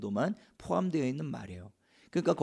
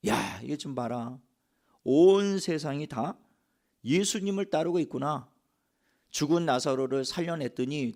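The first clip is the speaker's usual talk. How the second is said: lamenting outcry; 2 semitones higher than usual. Retold or imitated. Preacher voicing the Pharisees' lament over the crowds, mildly exclaiming. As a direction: imitate a mildly dismayed exclamation, pitch lifting after the opening. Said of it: "탄식을 하면서 외쳤던".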